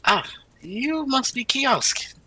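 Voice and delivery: high, slow and loud; character voice. Acted. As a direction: greet him with put-on grandeur. Character greeting the stranger.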